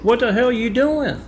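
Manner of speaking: high, loud angry yell; angry outburst. Retold or imitated. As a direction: blow up at her. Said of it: "And he blows up".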